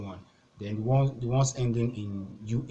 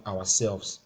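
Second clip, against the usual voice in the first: "ourselves" with SELVES given the weight; stress on SELVES; 3 dB louder than usual. Shown as a demonstration. Teacher showing reflexive pronoun stress, weight on SELVES. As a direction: stress the last syllable of "ourselves". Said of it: "the stress will be on selves".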